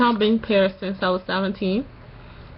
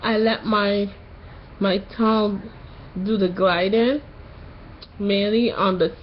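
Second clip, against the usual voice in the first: sore-throat voice after tonsil surgery; post-surgery voice. Real, not acted. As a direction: talk like your tonsils just came out. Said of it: "you notice something about my voice".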